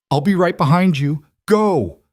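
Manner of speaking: high, loud urging; urgent shout. Acted. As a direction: push them to go, loudly. Urging children to flee.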